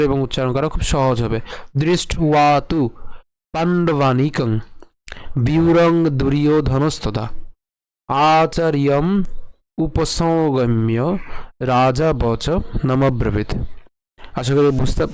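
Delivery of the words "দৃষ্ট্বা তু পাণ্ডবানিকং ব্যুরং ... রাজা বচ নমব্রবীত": slow verse, phrase by phrase with pauses; ধীরে ভেঙে পাঠ; broken-down recitation. Shown as a demonstration. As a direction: read each part slowly for learners to copy. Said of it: "আরেকটু ভেঙে পড়ি আপনাদের উচ্চারণ সুবিধার জন্য".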